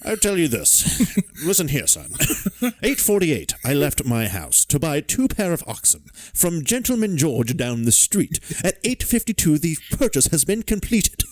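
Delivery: high, hammed-up old codger; gruff old man voice. Acting out Morse's alibi.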